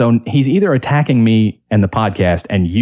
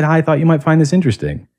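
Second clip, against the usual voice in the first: higher, innocent sing-song quote; innocent mock; 6 semitones higher, faster than usual. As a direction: stress how harmless it was, light and innocent. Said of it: "I just said".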